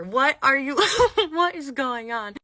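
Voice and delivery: high, loud baffled question through laughter; retold giggly bewilderment; laughing disbelief. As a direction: ask it incredulously while cracking up. Baffled laughing reaction to manager.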